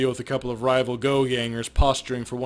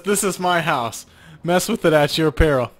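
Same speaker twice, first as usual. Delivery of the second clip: stern madam; 2 semitones higher, 6 dB louder than usual. Acted. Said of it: "Her demeanor says".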